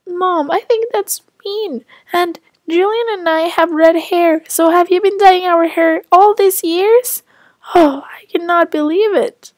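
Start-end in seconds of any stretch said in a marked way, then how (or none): 0.1-7.2 put-on indignant child. Child protests to mother.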